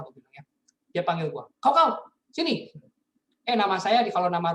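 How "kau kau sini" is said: higher, louder, slow stern mother call; mom calling sternly. Retold or imitated. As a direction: call him over like an angry mom. Angry mother calling him. (mama memanggil dengan tegas dan keras)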